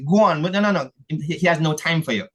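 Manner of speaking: impatient church member turning children away, mock dismissive; dismissive brush-off. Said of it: "They say".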